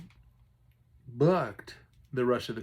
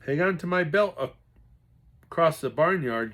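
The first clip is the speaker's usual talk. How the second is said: crisp order; 5 semitones higher, 6 dB louder than usual. Acted. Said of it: "Dad ordered crisply".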